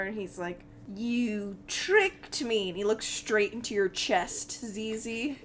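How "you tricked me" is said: Meepo remembering. Acted. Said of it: "he starts to kinda remember".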